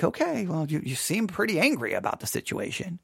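dry understatement. Retold or imitated. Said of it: "and I'm like".

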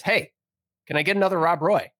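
retold pushy call for service; insistent repeat. Ignored customer calls to the bartender, insistent.

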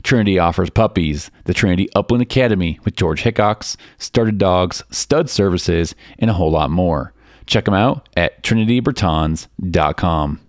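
polished, measured podcast ad delivery; sponsor ad read. Acted. Host reading sponsor spots to listeners, ad read. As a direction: read it as a scripted promo, phrase by phrase.

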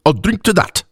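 put-on high, firm Mauxi accent; firm accented toast. A narrator's reading. Woman approving the elf's speech, firm Mauxi accent. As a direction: toast firmly with sharp consonants. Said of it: "said the Moxie woman firmly".

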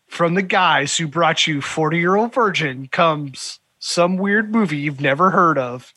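slow, lightly hyped promo voice; mock trailer announcer. Cohost mocking how studios market comedies, mock trailer announcer. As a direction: parody a movie trailer credit. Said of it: "when they do that is, like".

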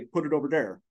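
imitating a Southern accent; mother's Southern accent. Son imitating his mother answering her teacher, Southern accent. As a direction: say it as a Southern child would. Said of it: "everyone in their Minnesotan accents ... would laugh at my mother".

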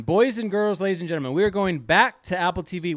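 hammed-up showman opener; mock host announcing the segment; announcer intro. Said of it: "Here we go".

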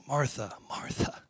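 soft, tender double call; hushed endearment; compassionate. Acted. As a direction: call the name gently, fading almost to a whisper. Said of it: "showing compassion".

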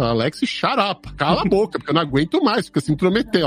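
mock annoyed. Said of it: "eu viro pra ela e falo".

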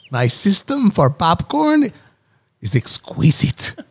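hammed-up, botched German scientist; badly faked German accent, proud of the system; failed German scientist accent. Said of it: "trying to go for German scientist and failed miserably".

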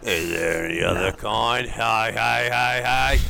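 a hint of Cockney Bert; cheeky Cockney joking; Cockney accent. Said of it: "Bert from Mary Poppins".

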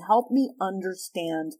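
a gentle plea to understand, slowing down. Shown as a demonstration. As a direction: invite the partner to explain, calmly.

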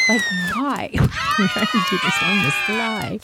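screaming for courage. Retold or imitated. Two girls charging the lake, screaming high. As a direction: shriek it out while running to the lake. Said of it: "we just start screaming".

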